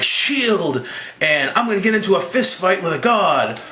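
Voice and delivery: hammed-up superhero charging in; mock hero cry. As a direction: proclaim it like a cartoon hero. Voicing Captain America charging in.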